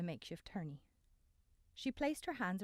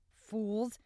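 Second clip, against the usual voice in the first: shouted; 3 semitones higher, 7 dB louder than usual. Acted. Vian shouts at the fighters.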